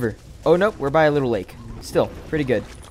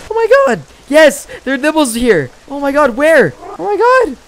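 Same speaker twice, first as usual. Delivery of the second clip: high, loud, fast giddy babble; laughing through the excitement; excited; 9 semitones higher, 4 dB louder than usual. Real, not acted. Streamer spotting another dibble, excited and laughing.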